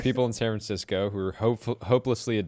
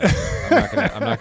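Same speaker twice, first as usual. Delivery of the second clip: squeaky laugh; 14 semitones higher, 10 dB louder than usual. Real, not acted. Teasing at doing the accent.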